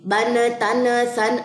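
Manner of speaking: slow, jolted syllables shown as wrong; wrong sound demo. Shown as a demonstration. Teacher shows students the sound not to make, slow. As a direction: show the mistake students must avoid. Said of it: "یہ sound نہیں بنانی".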